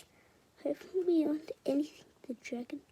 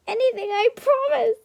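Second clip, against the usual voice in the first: loud, higher pleading; pleading while laughing; 8 semitones higher, 13 dB louder than usual. A narrator's reading. Dragon promising anything while tickled, loud plea. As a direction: beg through laughter. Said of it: "pleased the dragon, laughing his head off".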